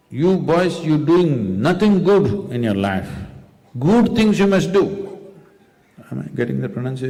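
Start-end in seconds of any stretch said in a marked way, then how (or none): 0.1-4.8 a hint of a stern, accented father; lecturing father. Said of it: "accent right?".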